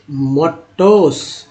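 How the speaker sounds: drawn-out teacher demo of मोटोस; slow model word. Shown as a demonstration. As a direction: stretch मोटोस out very slowly, each sound clear. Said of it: "teacher models pronunciation".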